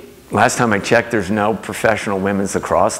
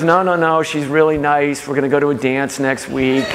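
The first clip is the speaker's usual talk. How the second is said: higher-pitched imitation of a young daughter; daughter's cheerful protest; 6 semitones higher than usual. Daughter defending the opposing goalie to dad, imitated protest. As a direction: lift the voice high, protesting on the child's behalf.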